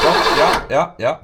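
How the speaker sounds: loud happy shout of relief; excited. Real, not acted. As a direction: cheer the fuel showing up. Fuel found in filter.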